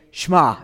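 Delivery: Shema pushed out loudly in one short burst; forceful, punched Shema; pushed from the belly. Shown as a demonstration. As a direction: push your belly in as you say Shema. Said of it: "pushing in right as you say".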